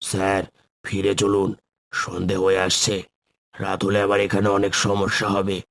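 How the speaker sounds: level, measured voice with hardly any lilt; unvarying, even-toned host; monotone caretaker. Acted. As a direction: greet the guests in an even monotone. Caretaker warns guests to return.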